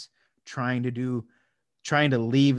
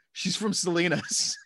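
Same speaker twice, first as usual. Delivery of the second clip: mocking commenter; 6 semitones higher than usual. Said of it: "one motherfucker that goes".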